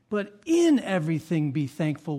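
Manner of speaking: slow, weight on "in" in "in everything"; stress on in. Shown as a demonstration. Preacher to congregation, slowly pressing "in". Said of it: "Notice that word".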